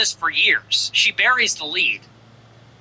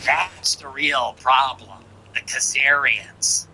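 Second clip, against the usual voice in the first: mock quote; 4 semitones lower, slower than usual. Quoting her in mock voice.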